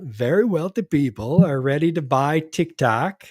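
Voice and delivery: lightly voiced, wobbly attempt at a politician; a hint of a badly faked presidential voice, pitch swinging up and down; horrible Trump impersonation. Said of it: "That was a horrible Trump impersonation".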